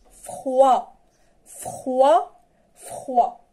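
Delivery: "Froid" said as frwa with the "oi" as wa; model pronunciation. Shown as a demonstration. Teacher drills "Froid" for pupils, clear model. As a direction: say "Froid" crisply as frwa for the class. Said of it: "Répétez avec moi".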